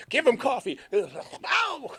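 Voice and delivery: high laughing yelp; laughing outburst. Real, not acted. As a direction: burst out laughing. Laughing exclaim.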